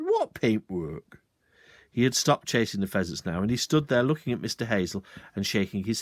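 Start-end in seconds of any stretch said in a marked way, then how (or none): 0.0-1.2 slow, deadpan; feigned innocence. Acted. Sergeant slowly playing dumb to the landowner. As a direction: play dumb.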